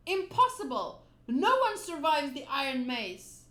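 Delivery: put-on stunned villain shouting at the rubber boy; shocked captain. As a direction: bellow it in disbelief. Alvida shocked Luffy survived.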